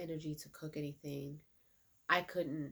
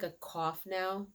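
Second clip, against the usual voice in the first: ordinary talk, nothing marked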